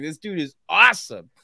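a light hint of Donnie Yen's voice; Donnie Yen impression. Fan retelling his reaction, lightly imitating Donnie Yen. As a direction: toss it off as a playful nod to Donnie Yen. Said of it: "that's my Donnie Yen impersonation".

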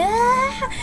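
high, startled ah; imitating her own shock; mock gasp of shock. Finding the house robbed, a high startled ah.

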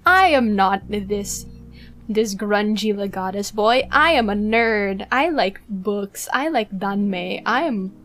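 lightly imitated streamer, emphatic on each opening word; Fulgur. Fan retelling a streamer's debut confession, light imitation. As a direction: declare each statement with a slight swoop up at the start. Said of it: "where he's like".

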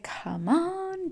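high, drawn-out whiny coaxing; mock exasperated begging; pleading. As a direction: stretch it into a high plea. Universe coaxing you back.

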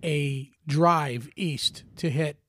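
whistly speech; whistling s. Real, not acted. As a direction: air whistling through teeth. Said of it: "I'm whistling when I talk".

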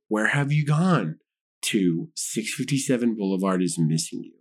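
slow, measured letter reading; letter read aloud. A narrator's reading. Podcaster reads the watcher's letter to a cohost, slow and ominous. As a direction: drop low for the closing words.

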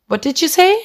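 high, startled what did you say; shocked question. Retold or imitated. Boss on the phone hearing about morphine, startled disbelief. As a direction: jump up in disbelief.

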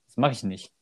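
casual "nicht" said as "nich"; everyday "Das mach ich nich"; swallowed final T. Shown as a demonstration. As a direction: drop the t of "nicht" at the phrase end. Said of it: "manchmal auch einfach nur".

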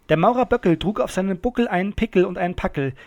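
fast, fluent tongue twister; schneller Zungenbrecher. Shown as a demonstration. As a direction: race through it without stumbling. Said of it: "Okay, ich versuch's schnell". (zügig heruntergerattert)

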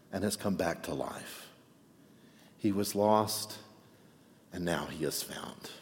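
father gently reassuring his angry son, slowing and softening; tender father. Acted. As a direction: let the father's words fade gently.

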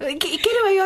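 lightly voiced, high-pitched contestant; high, urging "I can do it"; eager contestant. Contestant psyching herself up for soba, high and eager.

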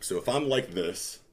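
talking while standing up; words spoken mid-rise from seat; getting up from chair. Real, not acted. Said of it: "hold on, let me stand up".

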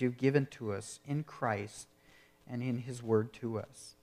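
earnest, measured prayer voice, softening toward the end; closing prayer. Acted. Pastor praying over his congregation, earnest and hushed.

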